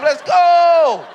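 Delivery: high, very loud stretched-out cheer; imitating a wild crowd scream; screaming fan. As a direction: yell it like a fan in the stands. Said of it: "fans in the stands screaming my name".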